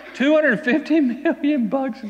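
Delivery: high, slow, marvelling at the sum; amazed exclamation. Real, not acted. Preacher amazed at the servant's enormous debt, drawn out. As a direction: let the huge number land with wonder.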